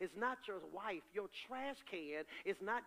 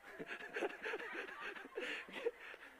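high breathy laugh; 5 dB quieter than usual. Real, not acted. Preacher laughs at own joke.

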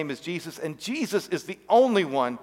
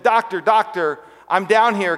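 raised voice, calling up from a pit; calling for help; 5 semitones higher, 5 dB louder than usual. Acted. Man in the pit calls up to the doctor, calling out. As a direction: shout up to the passing doctor for rescue.

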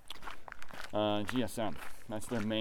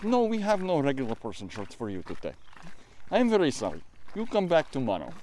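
put-on light Russian accent. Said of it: "more Russian than Icelandic for the accent".

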